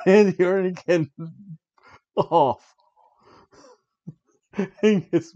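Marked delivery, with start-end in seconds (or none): 0.0-2.7 louder, higher mock creepy doll voice; hammed-up line from the doll; retold Sister Abigail. Sister Abigail snaps at Randy Orton, mock creepy. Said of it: "Sister Abigail says".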